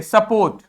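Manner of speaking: "सपोर्ट" with a quick uh and full o; reduced first vowel. Shown as a demonstration. Teacher pointing out the unspoken vowel, "सपोर्ट" with weak first syllable. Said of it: "इस वाले को नहीं pronounce कर रहा है".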